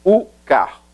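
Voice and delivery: "u carro" with the r at the back of the throat; Portuguese "u carro", guttural r. Shown as a demonstration. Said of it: "El carro".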